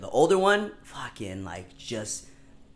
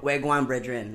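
imitated Jamaican-like Belizean Creole greeting; Belizean Creole accent. Shown as a demonstration. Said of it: "I don't have the good accent".

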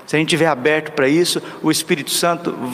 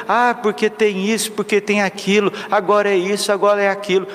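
higher, whiny list of excuses; mocking excuses; 5 semitones higher than usual. Preacher mocks the faithful's excuses, higher whiny voice. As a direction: mimic people making excuses. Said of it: "a desculpa é muito grande".

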